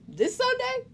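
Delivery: high-pitched startled question; taken aback. Retold or imitated. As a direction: ask it in mild alarm, voice jumping up. Editor springs early deadline on writer.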